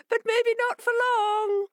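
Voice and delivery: teasing fishes. A narrator's reading. Fishes taunting the fox, high and gloating. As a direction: let the threat slip out playfully.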